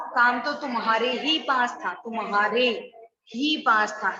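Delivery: तुम्हारे ही पास था, with तुम्हारे pressed hard; stress on तुम्हारे. Shown as a demonstration. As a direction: lean on तुम्हारे, then ही पास था. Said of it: "तुम्हारे शब्द पे जोर दिया गया है". (तुम्हारे पर ज़ोर देकर)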